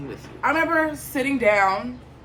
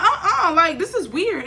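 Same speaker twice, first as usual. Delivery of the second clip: higher, louder, laughing through the words; laughing disbelief; 9 semitones higher, 5 dB louder, slower than usual. Retold or imitated. To the podcaster, laughing in disbelief.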